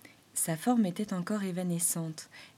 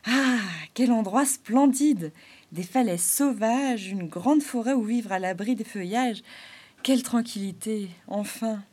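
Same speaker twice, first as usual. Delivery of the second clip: Arlequin admiring; 2 semitones higher, 5 dB louder than usual. Acted. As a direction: savour every word of the view.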